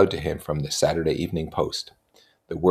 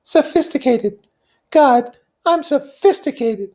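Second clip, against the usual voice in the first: scornful; 8 dB louder, slower than usual. Acted. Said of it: "she laughed with thrilling scorn".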